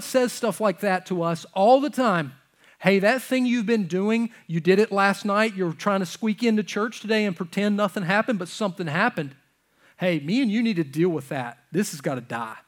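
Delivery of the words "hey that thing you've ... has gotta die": forceful, loud rebuke; stern God voice. Pretend. God confronting the congregation, loud stern voice. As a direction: confront the sinner hard, like God.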